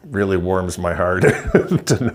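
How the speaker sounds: slow, relishing gloat breaking into a laugh; gloating laughter. Real, not acted. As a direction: savour it and let real laughter out. Gloats, laughing at rival fans' misery.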